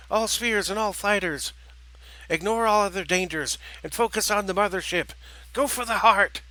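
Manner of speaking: high, loud commanding shout; shouted orders. Acted. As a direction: bark the orders over the battle. General shouting orders in battle.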